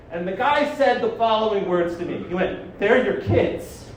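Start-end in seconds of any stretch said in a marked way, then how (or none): 2.8-3.9 slow, drawn-out retold doubt; pointed disbelief. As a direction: repeat it back slowly, not buying it. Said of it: "That's a specific tone of voice".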